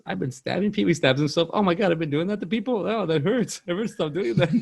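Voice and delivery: lightly voiced pained cartoon character; mock cartoon character. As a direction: squeal it like a shocked cartoon dad. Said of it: "And he goes".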